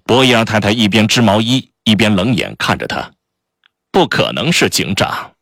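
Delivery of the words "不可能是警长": slow, dismissive doubt; dry disdain. Acted. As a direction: waves him off, unimpressed. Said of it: "他不以为然地说".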